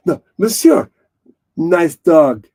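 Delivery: loud mock-French inspector; hammed-up French accent; Clouseau. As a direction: call out like a comic French detective. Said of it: "What's that Clouseau thing".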